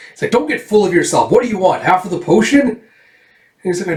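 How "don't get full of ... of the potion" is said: raised, irritated haggling; exasperated, pitch lifted; acted exasperation. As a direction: push back with indignant questions. Villain haggles angrily with girl.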